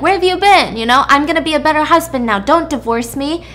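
mock outburst turning into fast pleading; acted demanding husband. Husband confronts his wife, acted demanding then pleading.

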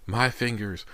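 high-pitched cry of pain; agonized cry. A narrator's reading. Injured Anthony cries out over his mangled hand, agonized cry. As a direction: cry out like a trapped animal. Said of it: "Anthony's cries sounded more like the wails".

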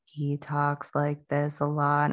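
slow, softened low mumble; low mumbling husband. Retold or imitated. Wife imitating how her husband talks, slow and quiet. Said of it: "My husband also is low determination".

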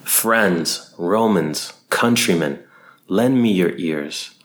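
slow, grand stage delivery; Shakespearean oration. Acted. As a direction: declaim it like an actor to a crowd. Recites Shakespeare, theatrical oratory.

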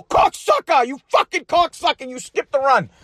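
mad. Retold or imitated. At Ralph for skipping the team run, a mad yell. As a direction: spit the insult at him, furious. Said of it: "I was so mad".

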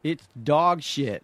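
very slow, deadpan stoner drawl; Man Stoner. Acted. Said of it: "I'm gonna be Man Stoner".

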